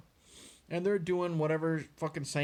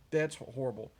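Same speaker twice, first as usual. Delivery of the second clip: ordinary talk, nothing marked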